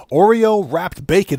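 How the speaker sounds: stunned echo of a weird food; incredulous. Real, not acted. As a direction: repeat it like you can't believe it. Stunned by chat's food idea.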